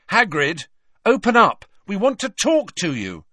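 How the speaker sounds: loud, high shout through a door; calling out. A narrator's reading. Harry calling to Hagrid through his closed door, shouting. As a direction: demand to be let in.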